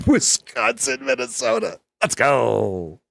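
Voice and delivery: put-on very high, slow Valley girl. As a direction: squeal it like a Valley girl, laughing. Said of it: "Who was the Valley girl last week?".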